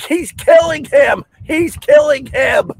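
high desperate shout. Retold or imitated. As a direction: yell it in panic. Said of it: "And I'm like".

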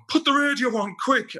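high, urgent wake-up call; mum's urgent call. Retold or imitated. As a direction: rouse him like a mum in a hurry. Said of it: "my mum waking me up going".

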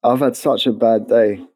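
tired, worn-out voice; exhausted. Real, not acted. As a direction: sound drained and weary. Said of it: "You sound exhausted".

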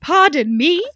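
a light British lilt on Pardon me; vaguely British accent. Retold or imitated. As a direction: ask it with a hint of British polish. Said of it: "which is why I'm doing that voice".

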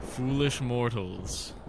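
slow, drawn-out haunted house host; lightly hammed-up ghoulish welcome; slow theatrical villain menace. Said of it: "being spooky".

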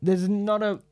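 breathless through laughter; catching breath midword. Real, not acted. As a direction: gasp for air mid-sentence. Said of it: "I lost my breath".

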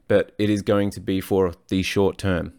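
put-on slips into an American accent mid-sentence; lightly American-accented line; accidental American accent. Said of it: "Don't know why I went American on that one".

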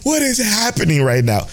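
high, slow bewildered wail; retold crying. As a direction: replay the disbelief of sobbing at the screen. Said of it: "I'm like".

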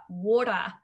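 "water" in an Australian accent with no final R, ending "wota"; a bad Australian accent: "water" said as "wota", the R dropped; mock Australian accent. Shown as a demonstration. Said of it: "which is a horrible Australian accent".

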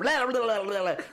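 loud, high mock scare shout; hammed-up jump-scare yell; monster roar. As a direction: leap out and blare it at them. Actor jumping out at them.

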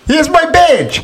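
slow, high-pitched cop announcement; movie cop challenge. Acted. Podcaster acting Seagal's bar challenge, drawn-out mock tough cop.

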